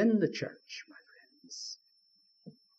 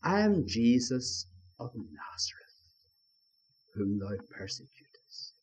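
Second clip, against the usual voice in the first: corrected verse, lower and softer; corrected quote; 6 semitones lower, 7 dB quieter than usual. Shown as a demonstration. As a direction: lower and softer, \"I am Jesus of Nazareth\" said with weight. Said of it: "No, no".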